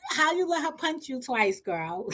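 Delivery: high voice through laughter; laughing. Real, not acted. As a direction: say it while cracking up. Laughing at the friend.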